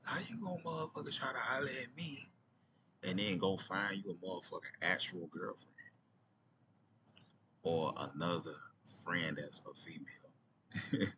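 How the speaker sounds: put-on high, scolding girl voice; imitating angry girl. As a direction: play her mad and indignant. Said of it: "She was like".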